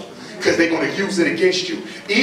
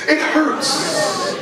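mock sympathy; 7 semitones higher than usual. Mocking teacher's line.

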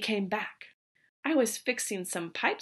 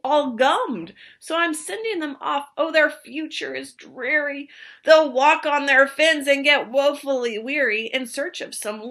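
Lorax voice; 3 semitones higher, 5 dB louder than usual. Acted. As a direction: boom out the name, pitched up. Lorax laments fish.

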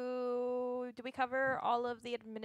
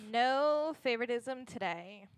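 stern; slower than usual. Acted. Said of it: "She sounded stern".

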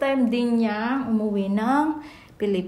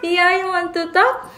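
high, slow sing-song coo to an infant; 9 semitones higher, 6 dB louder, slower than usual. Real, not acted. Mother coos at her drooling baby in a high, slow sing-song.

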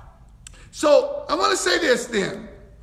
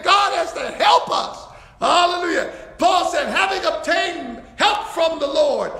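joyful preaching; 4 semitones higher than usual. Real, not acted. Preaching with laughter.

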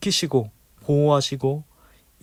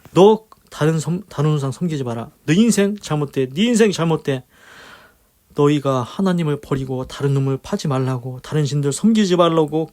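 stern divine warning; 3 dB louder than usual. Retold or imitated. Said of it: "경고를 하십니다".

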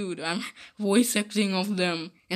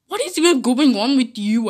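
louder, higher exasperated challenge; exasperated demand; 4 semitones higher, 6 dB louder, faster than usual. Acted. Pony confronts another in the quarrel, exasperated. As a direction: confront them, voice raised and up. Acted quarrel between the ponies.

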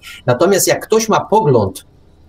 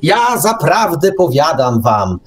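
mock preacher; 2 semitones higher than usual. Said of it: "w takim duchu właśnie ewangelizacyjnym".

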